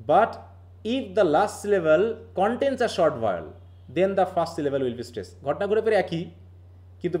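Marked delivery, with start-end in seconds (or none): 0.1-5.3 slow dictation. Shown as a demonstration. Reads rule slowly to class.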